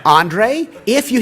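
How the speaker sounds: high and loud, rushing in to explain; calling his name, keen to explain; eager start. Retold or imitated. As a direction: burst in eagerly. Tries to explain, cut off.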